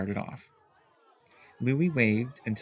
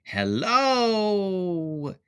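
shy hello; 8 semitones higher than usual. A narrator's reading. Louis greets puppet.

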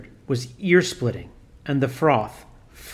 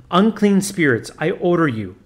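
priest crying out; 3 semitones higher than usual. Acted. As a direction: order the spirits out. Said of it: "cried the priest".

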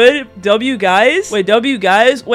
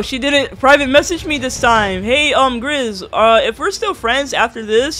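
normal talking voice

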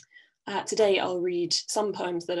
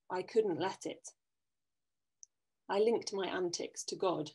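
measured poetry reading with deliberate pauses; poem reading; 6 dB quieter than usual. Acted. Poet reads her poem Saint to an online audience, measured recital. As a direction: read it line by line, leaving space between phrases.

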